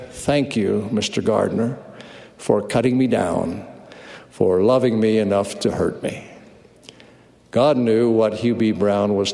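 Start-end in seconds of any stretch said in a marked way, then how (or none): 0.1-6.2 grateful thanks. Real, not acted. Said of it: "I look up to God and say".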